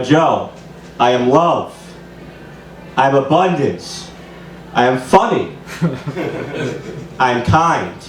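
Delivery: low, measured mirror affirmations; self-affirmation. Acted. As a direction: recite it slowly and evenly to yourself. Recites daily affirmations to mirror.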